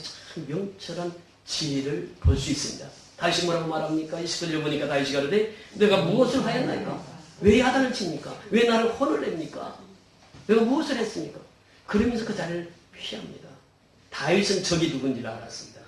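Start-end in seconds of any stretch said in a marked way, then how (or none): 5.7-11.4 higher-pitched, aggrieved questioning; raised-pitch plea of innocence; acted protest. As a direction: protest a scolding from an older brother. David protests his brother's scolding.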